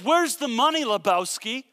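rough him up with a borrowed movie line; mock gangster shakedown. Preacher voicing the servant who chokes his debtor, mock thug.

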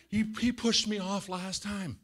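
high mimicked kid voice; high, stammered imitation of a wronged kid; complaining child.

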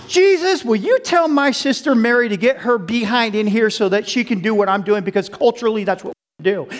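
Martha, fed up, pleading to Jesus; exasperated Martha. Acted. Martha scolding Jesus about her idle sister, exasperated.

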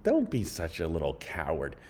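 mock-angry lecture to a coward; scolding rant. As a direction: tear into him for running away. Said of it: "I'm like".

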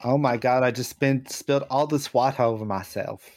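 mock Philadelphia accent; heavy Philly accent. Player improvising as Reaper Joey, Philly accent. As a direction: play a local in a put-on Philly accent. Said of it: "like, a heavy Philly accent".

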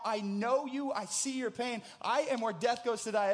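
loud, high preaching at full force; ringing sermon climax in the voice of Jesus; impassioned declaration. Acted. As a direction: proclaim each "I am" like a triumphant announcement.

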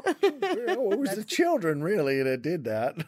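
put-on high, laughing old lady. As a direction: play a sweet old granny. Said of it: "fun elderly voices".

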